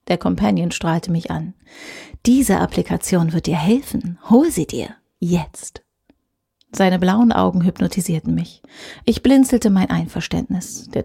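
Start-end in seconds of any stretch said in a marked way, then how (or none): 2.3-5.8 hushed, pressing ad voice; urgent whisper. Acted. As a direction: coax her to stay, under the breath. Companion urges, whispers.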